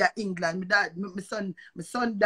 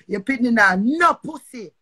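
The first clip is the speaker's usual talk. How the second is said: angry yell; 7 dB louder than usual. Real, not acted. Heated rant cursing at rival.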